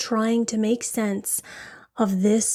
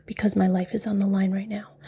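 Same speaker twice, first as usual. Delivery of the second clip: quick, understated deadpan retelling; flat retort; faster than usual. Retold or imitated. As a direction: imitate a defendant answering flatly, without feeling. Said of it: "stares back and flatly says".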